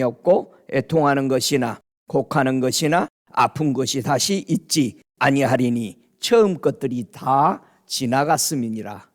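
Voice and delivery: low, measured scripture reading. Acted. Reads scripture aloud.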